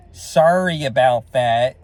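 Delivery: slow, drawn-out fake sorry; mock-sincere apology, slowed right down; insincere apology. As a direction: say sorry without meaning it, dragging it out. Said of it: "like, totally ungenuine".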